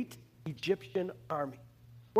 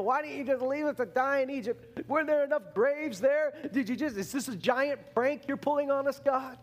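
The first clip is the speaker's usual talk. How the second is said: higher, whiny imitation of complaining wimps; mock whining Israelites; 5 semitones higher than usual. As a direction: mimic the frightened people griping at God. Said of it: "these wimps that are crying out".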